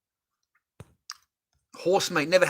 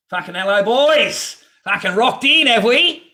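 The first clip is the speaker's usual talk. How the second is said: excited loud greeting; 8 semitones higher, 9 dB louder, slower than usual. Real, not acted. Greeting viewers arriving in chat.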